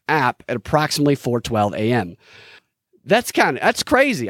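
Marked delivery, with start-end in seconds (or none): 3.1-4.3 high, stunned disbelief; surprised. Real, not acted. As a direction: react like it just hit you. Reacting to a shocking detail.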